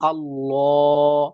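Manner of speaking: আল্লাহ with a heavy, full L; heavy Allah. Shown as a demonstration. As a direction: say আল্লাহ with a thick, heavy lam. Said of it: "তাহলে এটা মোটা হবে". (মোটা করে আল্লাহ)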